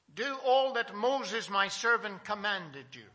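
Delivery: loud, slow, high-pitched charge; quoted divine command. Retold or imitated. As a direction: proclaim God's order slowly and loudly. Quoting God's charge to Joshua.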